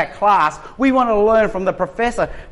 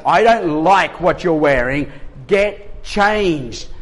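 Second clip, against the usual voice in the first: imitating wife's command; 3 dB louder, slower than usual. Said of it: "a command disguised as a question".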